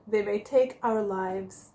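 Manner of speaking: "take our freedom" stretched out slowly after a dramatic pause, a light William Wallace rallying cry; rally the troops lightly, like Wallace; Braveheart speech. Retold or imitated. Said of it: "as Mister William Wallace so famously said".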